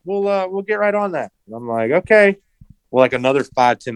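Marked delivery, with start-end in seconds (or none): 0.0-1.3 high-pitched customer service voice; imitated clerk, pitched way up; chirpy front-desk brush-off. Voicing front desk worker in story. 1.9-2.4 high-pitched retold okay; imitated pleasant acceptance; mock agreeable reply. Retold reply to desk's brush-off.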